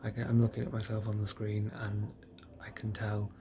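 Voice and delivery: woozy and drowsy from painkillers; drugged up after surgery. Real, not acted. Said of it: "I'm really drugged up".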